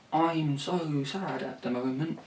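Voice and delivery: sing-speak a lazy sad lyric; mock mopey lyric. Songwriter parodying a lazy lyric, mock sad. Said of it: "you can't just say".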